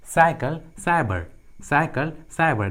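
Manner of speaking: "साइकिल, साइबर" separately, each opening on s; C pronounced as s. Shown as a demonstration. Teacher showing C before Y, word-by-word s demonstration. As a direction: model "साइकिल" and "साइबर" with a clear initial s. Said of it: "सी का उच्चारण क्या होता है".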